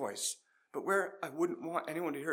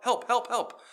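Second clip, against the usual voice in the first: higher, louder urgent radio call for help; 7 semitones higher, 5 dB louder, slower than usual. Retold or imitated.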